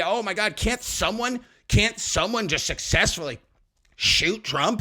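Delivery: high-pitched mock plea; mocking whine. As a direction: imitate a pleading complainer, pitched well up. Mocking leftists' wish out loud.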